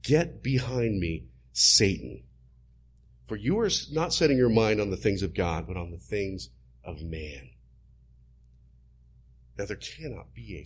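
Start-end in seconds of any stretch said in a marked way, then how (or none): 0.0-7.5 stern rebuke. Acted. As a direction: rebuke him firmly, deliberate. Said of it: "he rebukes him and says".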